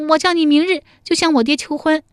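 high, loud commanding; bossy order. Acted. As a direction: order him to propose. 陶三春 orders proposal. (命令式地大声)

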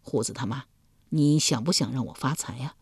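soft, low, coaxing voice; gentle coaxing. Acted. Husband softly coaxing his wife, gentle and low. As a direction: sweet-talk her softly. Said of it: "柔声问道".

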